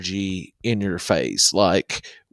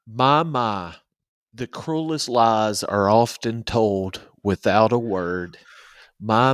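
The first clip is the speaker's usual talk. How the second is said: lyric recital; 3 dB quieter than usual. Acted. Co-host reciting a favorite lyric, measured recital. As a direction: read it out like verse.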